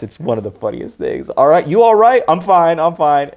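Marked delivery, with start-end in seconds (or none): 1.3-3.3 raised, louder quoted voices; acted movie exchange. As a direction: pitch it up, quick anxious reassurance. Acts out cab scene exchange.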